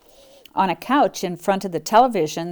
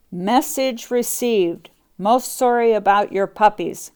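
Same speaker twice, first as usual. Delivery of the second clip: howling; 2 semitones higher, 3 dB louder than usual. Acted. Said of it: "howled a Great Dane".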